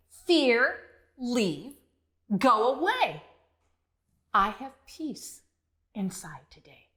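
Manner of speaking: slow, calm affirmation; calm mantra. Shown as a demonstration. Teacher showing kids the brave mantra, calmly. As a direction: say it like a soothing chant. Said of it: "you can just simply say".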